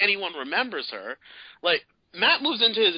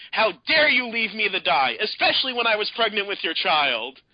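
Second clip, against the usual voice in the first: higher, louder hammed-up accusation; mock yell; 7 semitones higher, 4 dB louder than usual. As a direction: yell at him like a wronged girlfriend. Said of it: "yelling at him".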